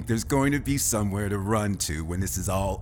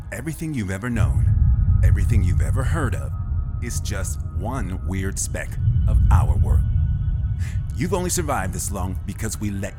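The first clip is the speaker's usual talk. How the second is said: loud gloating; 6 dB louder than usual. Acted. Villain gloating, louder.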